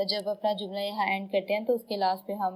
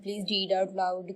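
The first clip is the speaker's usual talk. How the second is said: 1 request; much slower than usual. Shown as a demonstration. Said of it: "यहाँ मैं request कर रही हूँ".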